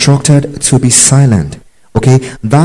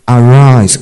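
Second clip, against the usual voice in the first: loud command. Shown as a demonstration. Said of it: "an imperative".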